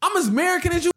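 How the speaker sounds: high, indignant protest; emotional rant. Real, not acted. Protesting that he is as American as anyone, emotional rant. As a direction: insist on it with real feeling. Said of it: "full, you know, emotional build up".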